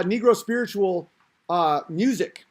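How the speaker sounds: ordinary delivery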